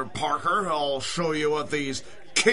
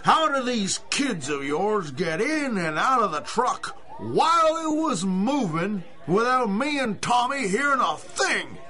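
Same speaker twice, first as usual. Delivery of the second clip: angry shouting. Acted. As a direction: yell it at the cop in disbelief. Owner yells at constable.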